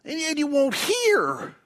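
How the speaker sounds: preacher voicing the prophet's loud lament; crying out. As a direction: call out to heaven in anguish. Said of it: "he cries out to God".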